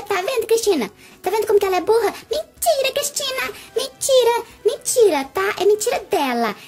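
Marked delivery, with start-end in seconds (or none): 2.3-6.5 loud, offended denial; indignant denial. Acted. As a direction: deny it hotly. Denying accusation loudly.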